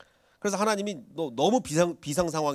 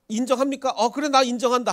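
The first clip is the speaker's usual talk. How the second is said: high, loud playful back-and-forth; playful slang banter; 10 semitones higher, 7 dB louder than usual. Retold or imitated. Preacher acts out God playfully saying "I admit it". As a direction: toss it off like trendy youth slang. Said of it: "청년들이 흔히 쓰는 유행어로".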